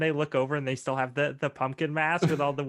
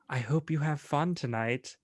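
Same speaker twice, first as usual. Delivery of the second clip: put-on Cockney Aussie accent; 2 semitones lower, slower than usual. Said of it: "your weird Cockney Aussie accent".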